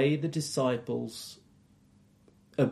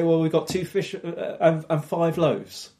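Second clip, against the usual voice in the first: mild sarcasm; 4 semitones higher, 3 dB louder than usual. Retold or imitated. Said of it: "is almost as sarcastic as".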